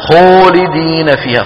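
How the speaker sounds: خالدين with the alif pushed toward و through pursed lips; wrong rounded alif. Shown as a demonstration. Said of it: "زم الشفتين".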